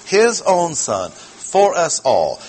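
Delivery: "His own" high and slow, then "for us all" pressed as firmly; emphatic stress. Shown as a demonstration. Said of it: "double underline means emphasis".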